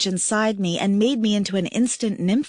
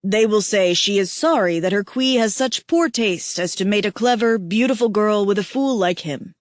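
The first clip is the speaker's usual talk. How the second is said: lightly voiced tender alien mate; 3 dB louder than usual. Aihako teasing weeping Kira, lightly voiced male mate. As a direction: voice the big mate, warm and teasing.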